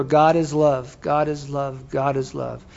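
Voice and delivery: low, softening repetition, fading out; soothing sponsor mantra. Retold or imitated.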